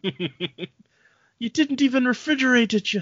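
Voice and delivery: high, slow indignant voice; high mock outraged scolding; Futurama character voice. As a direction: scold over a spoiled sandwich.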